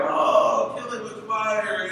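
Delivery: high, loud drawn-out mock panic; freaking-out kids. Boys beg dad to destroy the spider, hammed-up freak-out. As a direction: imitate children shrieking for drastic action. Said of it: "they're freaking out".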